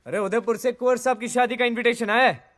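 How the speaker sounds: high, loud call across the house. Acted. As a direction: call out to someone in another room, pitched high. Calling out to Dolly about an invitation.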